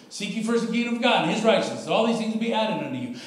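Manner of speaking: fast, run-together recitation; rattled off fast. Shown as a demonstration. Preacher shows how fast he could quote his verse, rapid-fire. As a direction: reel the verse off at speed like you know it cold. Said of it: "so fast you could, couldn't even see straight".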